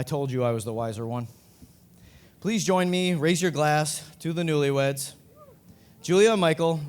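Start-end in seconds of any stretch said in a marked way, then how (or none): 2.4-6.8 toast call. Real, not acted. Toast to the newlyweds.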